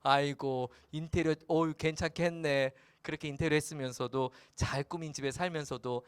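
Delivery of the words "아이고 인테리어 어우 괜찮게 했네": mild sarcasm. Acted. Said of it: "대화체로 한다면".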